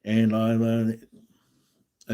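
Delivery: slow, drawn-out monotone; droning, dead-flat self-introduction. Retold or imitated. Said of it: "You can talk monotone around".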